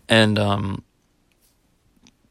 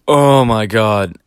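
slow, loud dread; drawn-out panicked gasp of words; alarmed oh my God; 6 dB louder, much slower than usual. Retold or imitated. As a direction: stretch it out as your stomach drops. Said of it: "I just immediately was like".

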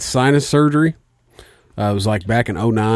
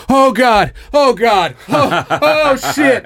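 retold scream; 5 dB louder, much slower than usual. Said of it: "like, fucking screaming".

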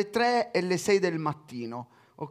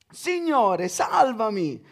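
higher, louder plea; mild cry for help; 6 semitones higher, 7 dB louder, much slower than usual. Acted. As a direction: call out as if sinking. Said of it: "gridò".

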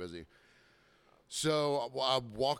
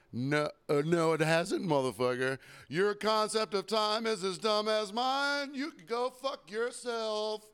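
rising into a high, slow, mocking snarl; telling off the impatient customer in a mock outburst; angry retort; 10 semitones higher, 4 dB louder, slower than usual. Pizza server snapping at the waiting customer, high mock fury.

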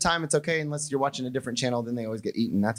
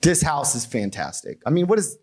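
lightly voiced chatty firefighter gushing over the house; mock polite firefighter. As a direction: firefighter making mock pleasantries with a homeowner. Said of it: "I'm pretty sure they don't say".

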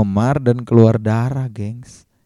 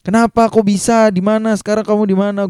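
high, urgent string of questions; retold panic; 10 semitones higher than usual. Narrator to Niken after news of her crash, retold panic. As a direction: fire off worried questions, pitched way up. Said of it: "Gua udah panik gitu kan".

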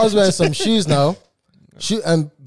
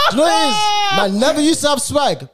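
high squealing laugh through words; laughing hard; 7 semitones higher, 3 dB louder, slower than usual. Real, not acted. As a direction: crack up laughing. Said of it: "laugh cry shout".

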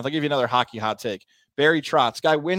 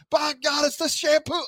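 mock exclaim; 12 semitones higher, slower than usual. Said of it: "And I'll be like".

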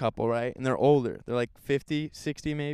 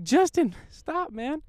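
mock scold; 4 dB louder, much slower than usual. Scolding kid in story.

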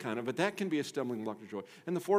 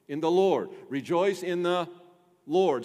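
louder, punched Lord; emphatic refrain; 4 semitones higher, 5 dB louder than usual. Shown as a demonstration. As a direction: lead the refrain firmly.

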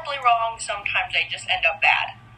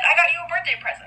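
mock sweet gift offer; 6 semitones higher, much faster than usual. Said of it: "I said".

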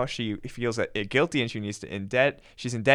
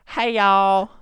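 bright, louder Southern pop-star greeting; pop-star voice; 7 semitones higher, 6 dB louder than usual. Pretend. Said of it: "Do it in a pop-star voice".

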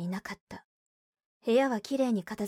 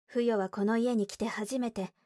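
ordinary delivery, nothing marked

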